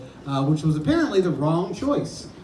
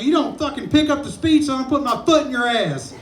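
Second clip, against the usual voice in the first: coach yelling; 5 semitones higher than usual. Retold or imitated. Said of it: "he's like".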